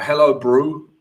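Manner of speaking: brief, half-hearted South African accent. Shown as a demonstration. Streamer greeting an Italian living in South Africa, tentative South African accent. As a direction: try out a South African accent, then give up. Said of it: "Let me do my South African impression".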